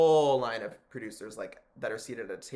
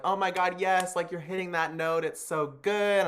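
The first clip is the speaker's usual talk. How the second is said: mock praise; 6 semitones higher, 5 dB louder than usual. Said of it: "I was trying to make a joke out of it".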